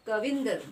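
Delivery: कविंदर with force on the short "vin"; teacher demonstrating the stress in कविंदर; stressed syllable. Shown as a demonstration. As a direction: lean on the middle of कविंदर. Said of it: "जोर पड़ रहा है".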